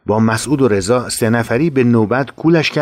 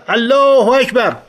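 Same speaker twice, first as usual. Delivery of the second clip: high, loud and slow, الله stretched long; long rallying shout; drawn-out battle cry; 13 semitones higher, 4 dB louder than usual. Retold or imitated. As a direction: call الله اکبر out slowly and loud. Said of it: "فریاد زدم".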